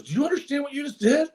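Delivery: alarmed. Retold or imitated. Translator alarmed at rash promise.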